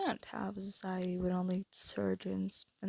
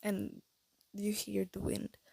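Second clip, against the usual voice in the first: airy, breathy voice; breathy, half-whispered; slower than usual. Real, not acted. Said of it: "getting breathy".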